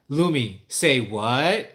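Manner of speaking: lightly imitated child prompting baby sister; older sister teaching. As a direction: mimic a sister coaxing out a word. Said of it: "Aura is teaching her how to say things".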